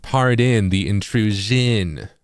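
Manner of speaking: slow, careful East Coast pardon the intrusion; drawn-out East Coast reading, eh in pardon; East Coast accent. Shown as a demonstration. Showing viewers own East Coast way, slow East Coast accent. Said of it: "that's my, like, East Coast accent".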